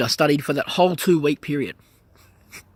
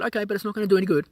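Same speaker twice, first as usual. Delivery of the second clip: quick, higher dismissive office lady; lightly voiced young woman; 6 semitones higher, much faster than usual. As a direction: toss it off like a doubtful clerk.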